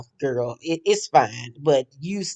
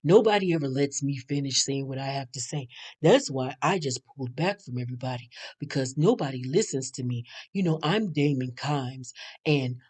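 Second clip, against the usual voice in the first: Damon imitation; 3 semitones lower, 8 dB quieter than usual. Mocking Damon explaining himself to Andy, low and soft. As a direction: murmur it low and meek, barely there. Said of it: "And he was like".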